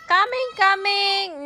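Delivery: high, loud eager call. Acted. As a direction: rush in calling out to help. Little truck calling to help.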